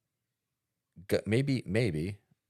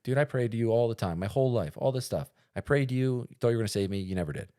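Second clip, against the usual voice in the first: high-pitched, aggrieved protest easing slightly; indignant complaint; 6 semitones higher than usual. Acted. Drowned man confronting God in a parable, indignant. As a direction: confront him, acting let down.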